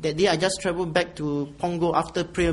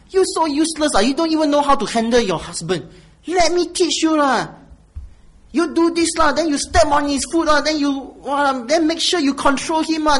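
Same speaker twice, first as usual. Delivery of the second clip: higher, louder bossy Singlish auntie; 9 semitones higher, 8 dB louder than usual. Retold or imitated. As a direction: lecture her like a pushy Singlish auntie. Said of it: "what does this colleague say?".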